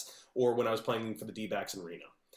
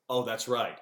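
sarcastic. Acted. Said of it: "establishes rules early and then just breaks them".

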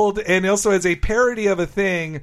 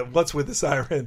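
put-on old man voice; 4 semitones lower, 5 dB quieter than usual. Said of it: "saying it in his old man voice".

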